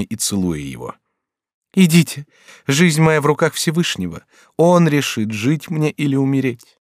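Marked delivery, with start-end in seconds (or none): 1.7-6.8 high, earnest resigned plea; resigned sick girl. A narrator's reading. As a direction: give her fate to God. Dying daughter sends father.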